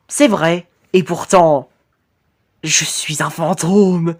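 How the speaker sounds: slow, slightly low ghostly reveal; a hint of an ominous phantom, drawn out; lightly voiced ghost. Ghost revealing himself to Titan's enemy, lightly ominous and slow.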